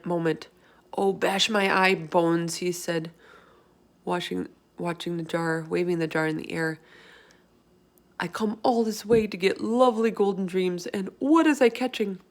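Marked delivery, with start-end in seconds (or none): 1.0-2.6 distressed. Acted. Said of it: "more distressed every moment". 8.2-12.2 distressed. Acted. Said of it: "more distressed every moment".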